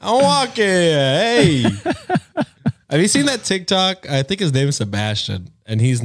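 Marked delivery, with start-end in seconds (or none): 0.0-1.6 higher-pitched mock New York Italian; hammed-up Italian-American accent. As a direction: play the indignant wiseguy for laughs. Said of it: "with the Italian accent".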